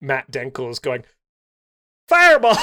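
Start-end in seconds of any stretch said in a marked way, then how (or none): 2.1-2.6 high, loud mock battle cry; shouted spell call. Player imagining a friend at a larp, shouting the spell. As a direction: yell it like a larper casting a spell.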